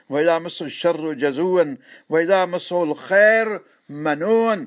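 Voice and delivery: slow chanted recitation with a rising close; slow Quranic chant. Acted. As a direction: intone the verse slowly and reverently.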